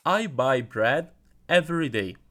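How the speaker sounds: slow, clear model sentence; teacher modelling a line for the class; model sentence for repeating. Shown as a demonstration. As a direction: say it slowly so they can copy. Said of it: "please repeat with me".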